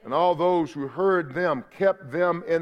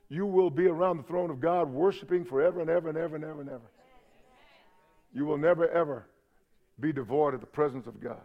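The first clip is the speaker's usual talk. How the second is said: hushed reverence; 3 semitones lower, 6 dB quieter, faster than usual. Acted. Reverent promise of eternal worship.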